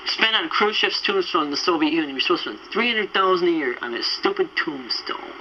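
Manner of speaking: normal talking voice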